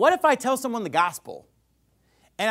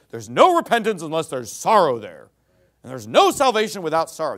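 forceful preaching; 6 dB louder than usual. Real, not acted. Preacher rebutting false doctrine.

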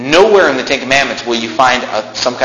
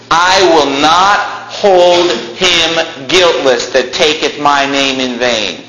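solemn voice of God; 2 semitones higher, slower than usual. Acted.

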